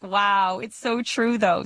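amused "wow", lightly imitated; mock-amazed, laughing reaction; retold laughing reaction. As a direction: retell it through a light laugh. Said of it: "I start laughing like".

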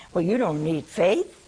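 ordinary delivery

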